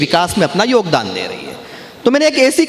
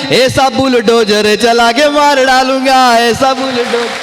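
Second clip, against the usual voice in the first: slow, drawn-out poetic declamation; kavi sammelan recitation; 3 semitones higher than usual. Acted. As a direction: recite each line with relish, stretching the words. Recites satirical poem to audience. (मंच पर कविता पाठ का धीमा, खिंचा हुआ अंदाज़)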